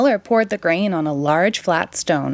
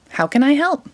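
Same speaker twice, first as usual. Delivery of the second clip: put-on eager boy; 7 semitones higher than usual. A narrator's reading. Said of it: "asked Jack".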